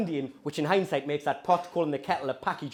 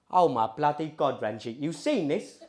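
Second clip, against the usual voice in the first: slow, drawn-out Cockney; strong Cockney accent. Retold or imitated. Cousin grumbling to Ranjit on the plane, strong Cockney accent. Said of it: "my two cousins have strong Cockney accents".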